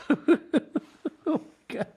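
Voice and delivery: high, breathy mock gasp; mock Sutton. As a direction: squeal it like a stunned socialite.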